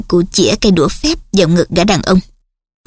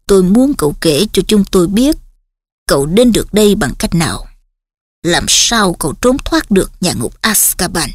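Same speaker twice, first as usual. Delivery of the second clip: gentle; 3 semitones lower than usual. Acted. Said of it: "Cụ Dumbledore nói dịu dàng".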